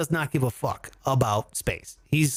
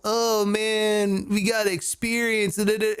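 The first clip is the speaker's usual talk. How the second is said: mock Burning Man hipster; 4 semitones higher, slower than usual. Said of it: "they're all like this".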